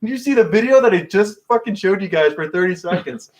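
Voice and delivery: high-pitched, incredulous mock scolding; retold telling-off. Retelling Steve-O scolding a fan filming, high mock outrage. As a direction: imitate an outraged performer, pitch jumping up. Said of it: "this dude's gonna get yelled at".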